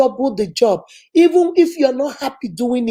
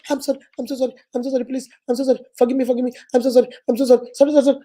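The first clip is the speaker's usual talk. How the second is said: frantic apology; much faster than usual. Retold or imitated. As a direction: beg forgiveness, a little lightly mocking. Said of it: "And the person say".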